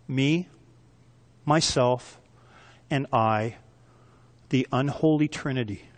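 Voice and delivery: dropped low and soft, mocking; hushed mocking aside; mock hushed list. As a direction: sneer it quietly at the self. Mocking self-focused prayer.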